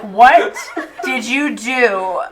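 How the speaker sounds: loud, drawn-out in-character question; mock-appalled, emphatic slow demand; exasperated demand. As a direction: confront them, stretching out the words. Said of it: "I look at him and I'm like".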